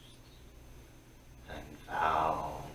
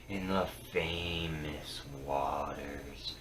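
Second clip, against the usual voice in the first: secretive whisper; 3 semitones lower, 8 dB quieter than usual. Acted. Seeress reveals a secret.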